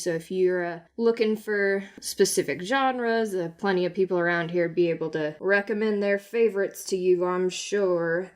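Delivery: unhurried festival guard, pitched low; easygoing law officer. Acted. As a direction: take your time, low and helpful. Game master voices festival guard.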